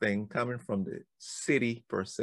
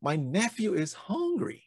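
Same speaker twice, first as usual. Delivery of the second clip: higher announcing voice; imitating uncle; 9 semitones higher than usual. Uncle announces nephew's hunger to townspeople, higher mock voice. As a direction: uncle tells the town. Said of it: "my uncle says".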